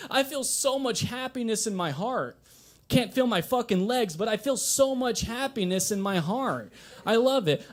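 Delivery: high, mock-blissful crying voice; hammed-up tears of joy; tearful joy. Caller tells boss after crash, mock blissful and high. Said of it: "I say".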